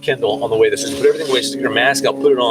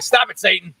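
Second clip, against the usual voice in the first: higher-pitched rebuke with a laugh in it; mock evangelist; 4 semitones higher than usual. Husband answering wife's complaint, mock evangelist rebuke. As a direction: rebuke the devil, half laughing. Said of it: "he goes full evangelist on you".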